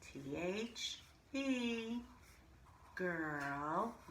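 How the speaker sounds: T H E, each letter spoken slowly and apart; spelled out slowly. Shown as a demonstration. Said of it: "spelling out the word".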